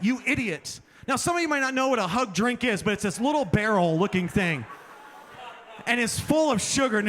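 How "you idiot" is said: a hint of a cheeky kid; lightly voiced kid sneering you idiot; imitating kid insult. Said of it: "he said that just like that".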